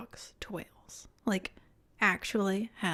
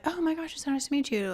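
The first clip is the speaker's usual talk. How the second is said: retold delight; 6 semitones higher, faster than usual. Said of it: "And I was like".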